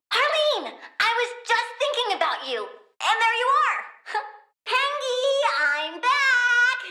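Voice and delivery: high, bright delighted hello; delighted greeting. Acted. Plant girl happily greets Harleen, high and delighted. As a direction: greet her like a dear friend.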